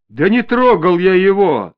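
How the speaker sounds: loud, high, drawn-out denial; angry yell. A narrator's reading. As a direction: cry out in indignant self-defence. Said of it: "снова заорал Помознев". (возмущённо кричит)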